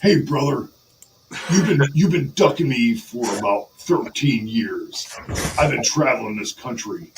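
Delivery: lightly voiced wrestling promo; wrestler's challenge promo. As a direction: call out a rival, hitting the openings harder.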